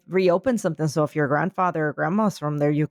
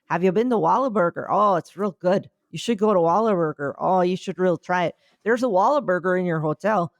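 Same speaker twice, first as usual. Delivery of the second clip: mock Canadian driver accent, lightly done; chirpy Canadian sell, lightly voiced. A Toronto driver pushing Whataburger, in a light Canadian accent. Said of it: "I appreciate that accent".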